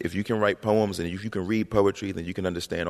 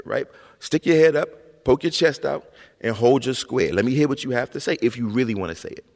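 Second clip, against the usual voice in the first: higher, louder imitated mom, insisting; mother demanding he speak up; 6 semitones higher, 3 dB louder than usual. Mother pushing her mumbling son to speak up, imitated insistence. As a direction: hold your ground, says mom, pushing hard. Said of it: "And she'd be like".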